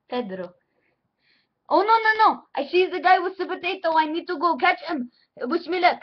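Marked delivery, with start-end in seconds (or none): 1.7-6.0 louder, higher urgent outburst; mock alarm. Prank caller spotting the potato thief, mock alarm. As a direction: sound like you must dash off after someone. Pretends to spot thief, ends call.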